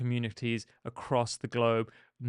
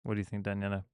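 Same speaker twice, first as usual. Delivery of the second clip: mock Italian accent, lower and softer; 3 semitones lower, 9 dB quieter, much faster than usual. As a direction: ask it in a playful Italian accent. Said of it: "do the Italian accent".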